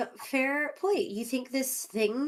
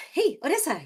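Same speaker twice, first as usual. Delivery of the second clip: called out a little louder and higher; calling out; 7 semitones higher, 5 dB louder than usual. Acted. Player hailing Odessa after catching up, called out. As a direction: hail her as she walks off.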